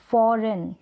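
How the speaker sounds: "फॉरेन" with silent g; foreign pronounced. Shown as a demonstration. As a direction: say "फॉरेन" clearly without any g sound. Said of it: "क्या है?".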